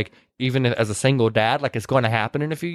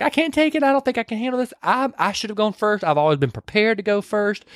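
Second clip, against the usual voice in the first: higher-pitched mock meltdown, easing down; retold frantic outburst, pitched up; going crazy; 6 semitones higher than usual. Retelling her breakdown after the loss, mock frantic and high. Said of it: "so then she goes crazy".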